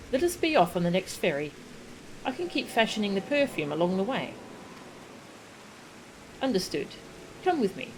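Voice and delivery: lightly acted, formal fantasy dialogue; in-character dialogue reading. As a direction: read the game characters' lines with measured, theatrical poise. Voices game dialogue aloud.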